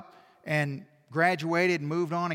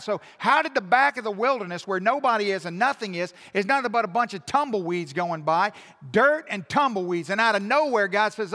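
loud, high, driving sermon delivery; impassioned preaching; 5 semitones higher, 7 dB louder than usual. Real, not acted. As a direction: preach it hard, punching the key words.

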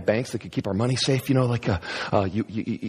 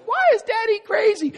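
put-on much higher voice of a puzzled little kid; small child voice; 4 dB louder than usual. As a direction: ask it like a confused toddler. Child asks about father.

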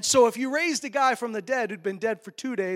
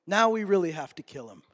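the same plot, now louder and decided; louder, resolved plotter; plotting leaders, firm; 5 dB louder than usual. Acted. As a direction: punch it out as a resolve.

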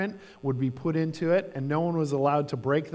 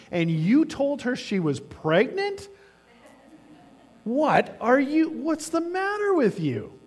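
building from firm to a much higher, outraged cry; indignant scolding; 7 semitones higher than usual. Retold or imitated. Regular doctor scolding the intern, rising to outrage. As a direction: tear into the careless intern, rising in disbelief.

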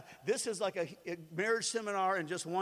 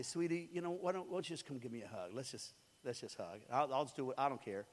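much softer, lower plea for a hug; soft and tender; 6 semitones lower, 6 dB quieter than usual. Retold or imitated. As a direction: gently invite her into a hug. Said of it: "the storm goes down in me".

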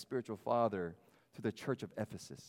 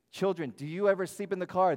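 put-on high, louder voice for small children; talking to preschoolers; 6 semitones higher, 7 dB louder than usual. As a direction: ask it like a cheerful preschool teacher. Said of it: "I share this with the preschool".

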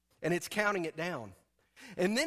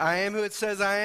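leading a loud confession; 6 dB louder than usual. Shown as a demonstration. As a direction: call it out firmly for the crowd to echo. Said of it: "Repeat after me and say".

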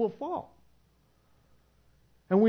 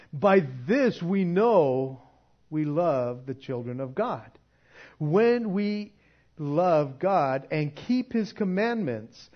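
slow, deliberate scripture read; measured reading of the Bible verses aloud; slower than usual. Acted. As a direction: read the verses slowly and solemnly. Reads scripture.

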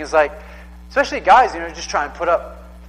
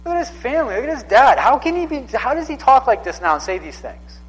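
higher, louder astonished voices; amazed prophets; 6 semitones higher, 4 dB louder than usual. Retold or imitated. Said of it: "they're like".

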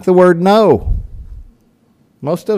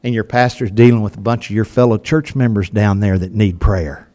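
smiling joke; 5 semitones lower than usual. Retold or imitated. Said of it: "with a smile on my face".

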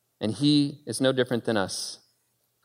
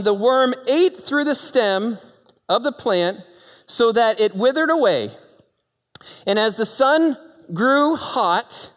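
fervent scripture reading; 6 semitones higher than usual. Acted. Preaching reading at full force.

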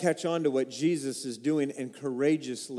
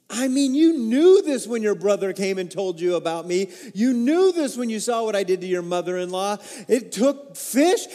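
mock scolding; 3 semitones higher, 6 dB louder than usual. Imagined Jesus scolding Peter.

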